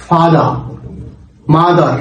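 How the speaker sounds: "ফাদার, মাদার" with American final r; American pronunciation. Shown as a demonstration. Teacher shows learners how Americans say it, American pronunciation. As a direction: sound the r ending "ফাদার" and "মাদার". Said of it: "আমেরিকানরা, আহ, তারা বলছে".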